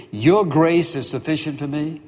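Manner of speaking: rising, disbelieving repeat of the promise; incredulous echo. Acted. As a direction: throw the words back as a question. Paul echoes God, incredulous.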